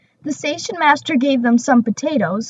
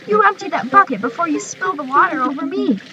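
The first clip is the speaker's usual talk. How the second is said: higher, scolding driver; gruff driver; 4 semitones higher than usual. Acted. Driver scolding the singing fireman, higher and brisk. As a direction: tell him off briskly. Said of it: "said the driver".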